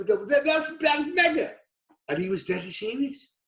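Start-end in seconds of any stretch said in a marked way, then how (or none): 0.0-1.5 laughing while quoting. Retold or imitated. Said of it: "I'm literally bent over".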